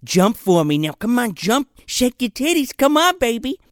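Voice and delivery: mock perv egging on, pitch climbing at the end; leering perv. Podcaster voicing a binocular-peeping perv, leering. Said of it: "this perv is, like, sitting in the woods".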